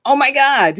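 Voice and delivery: a viewer stunned by Jack Nicholson crying; shocked audience gasp. Retold or imitated. Audience member stunned by the scene, a hammed-up gasp. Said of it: "you're like".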